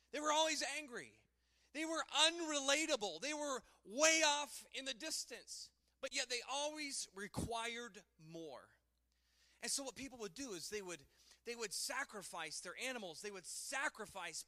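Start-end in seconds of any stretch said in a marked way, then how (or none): 0.1-8.7 excited. Real, not acted. Excited emphasis after the roar.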